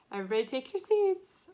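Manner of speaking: an annoyed teacher raising her voice; annoyed yell. A narrator's reading. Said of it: "Miss Rubin started yelling louder now".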